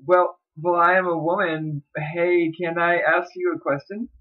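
put-on girl's voice. Shown as a demonstration. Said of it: "I'm gonna do this in a girl's voice".

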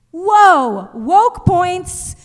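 loud, high hammed-up cheer; mock cheer. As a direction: whoop it like a bro celebration. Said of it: "I was supposed to go".

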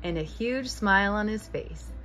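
bright, gently animated storybook reading; reading to children. A narrator's reading. Host reading a picture book aloud to young listeners, lively storytelling. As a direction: read it like a bedtime picture book for kids.

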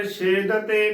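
ਛੇਦ ਤੇ with no i and a single t; ਛੇਦ ਤੇ as "shed-te"; run together as "chhed te". Shown as a demonstration. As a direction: close ਛੇਦ on the d, then ਤੇ. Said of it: "ਬਿਲਕੁਲ ਹੀ ਗਲਤ ਉਚਾਰਨ ਹੈ".

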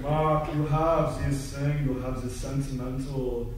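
slow mock Brussels accent; imitating a Belgian speaking English. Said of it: "this is my Brussels accent".

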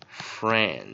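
"French" drawn out, ch released separately; sounded-out word. Shown as a demonstration. Teacher repeating for learners, "French" slowly sounded out. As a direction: stretch "French" and detach its final ch. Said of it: "再一遍".

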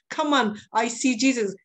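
high eager call to friends; excited call. Retold or imitated. Prisoner calls cellmates to come see Jesus, excited. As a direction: rush to tell them the news.

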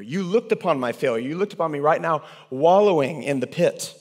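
high, loud, rising cry of gratitude; fervent prayer. Acted. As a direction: cry it out from the pit. Voiced repentant prayer.

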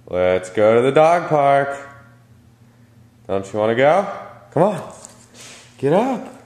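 rising, sing-song coaxing for a pet; high coaxing dog voice. Real, not acted. Coaxing sleepy dog to walk.

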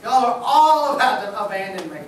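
loud, laughing, casual dude-speak; casual Jesus paraphrase. Retold or imitated. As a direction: warn the boys, half-joking. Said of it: "Jesus is pretty much telling his boys".

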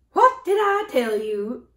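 slow, triumphant squawk; triumphant cackle. A narrator's reading. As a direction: gloat like a cackling hen. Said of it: "cried the hen with a cackle of triumph".

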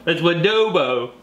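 Wadobo said slowly and carefully; correcting pronunciation. Shown as a demonstration. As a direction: spell out Wadobo deliberately. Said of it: "Now I can't even say it".

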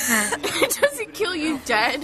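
slow, laughing through words. Real, not acted. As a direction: laugh while correcting. Laughing rebuttal.

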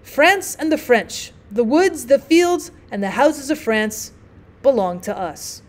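slow, measured proclamation; grand but restrained boast; declaimed toast. A narrator's reading. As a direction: declaim each item slowly, lowering at the close. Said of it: "held out his glass over the table, and repeated".

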